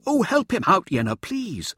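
high, loud exasperated plea; crying out. A narrator's reading. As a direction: call out in mock despair. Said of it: "Mirza cried".

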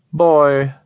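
high, slow, detached alien; cool otherworldly being, measured and precise. Acted. Alien answers.

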